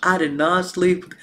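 mock-earnest, level denial; deadpan sworn denial, lightly acted; so serious. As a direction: deny it with a straight, serious delivery. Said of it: "Like, he was so serious".

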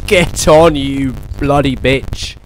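yelling at the game as it finally loads; triumphant shout. Real, not acted. Finally gets the game going.

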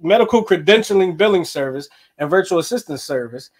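lightly done puppet frog voice; Kermit the Frog voice. Acted. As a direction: read the ad as a mild Kermit. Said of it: "Kermit the Frog voice on".

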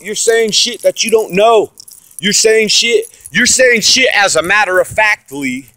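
ranting hard at the critics; angry rant. Real, not acted. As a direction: lay into them, furious.

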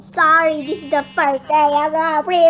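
loud, over-emphatic declaration; odd loud voice. Pretend. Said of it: "Why am I talking like this".

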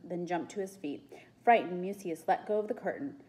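measured read-aloud storytelling; story narration. A narrator's reading. Reader telling children of the soothsayer at work, story narration. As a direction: narrate the scene clearly.

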